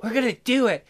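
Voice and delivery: put-on girl line through laughter; laughing. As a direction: push through giggles.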